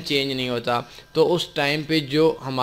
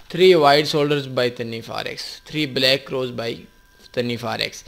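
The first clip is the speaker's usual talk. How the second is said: slow search dictation; slower than usual. Shown as a demonstration. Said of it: "اس کے لیے آپ نے YouTube میں سرچ کرنا ہو".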